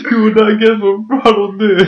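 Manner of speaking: high, loud clickbait hype. Retold or imitated. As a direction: tease it like a clickbait video. Clickbait title voiced.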